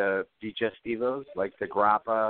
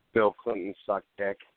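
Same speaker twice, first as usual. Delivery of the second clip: plain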